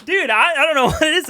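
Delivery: high giggling, fighting it; trying to stop laughing; stifled giggles. Real, not acted. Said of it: "I'm just in this funk".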